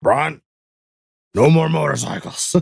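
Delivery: put-on high, creaky, rough old smoker mama voice. Acting out what ron's mom would say after a crash, old smoker mama voice. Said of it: "You made her sound like an old motorcycle smoker mama".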